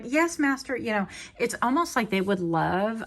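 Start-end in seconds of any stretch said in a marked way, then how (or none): 0.0-0.8 higher, mock obedient yes master; light sitcom genie reply. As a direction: play the eager genie. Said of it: "and she's like".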